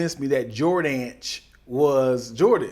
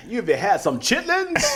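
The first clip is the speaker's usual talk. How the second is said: mock American accent; 3 semitones higher than usual. Offering food while imitating an American dad, mock American accent. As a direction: put on a playful old-time American accent. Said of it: "an American accent".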